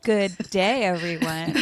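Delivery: playful mock croaky host voice; the host with a frog in her throat. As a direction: ham up a croaky show-host hello. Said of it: "Melinda and her frog in her throat".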